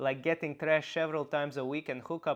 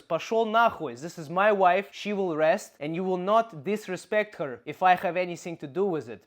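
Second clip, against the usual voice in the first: firm, raised-voice telling-off; forceful, slightly louder defiance; standing up to boss; 3 semitones higher, 4 dB louder than usual. Acted. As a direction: lay down the law for your wife. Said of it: "channel this energy and tell this Bosnian debil boss".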